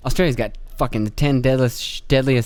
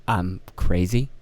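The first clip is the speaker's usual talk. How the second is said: mock crazy caller; 8 semitones lower, 4 dB quieter, slower than usual. Acted caller, low and quiet.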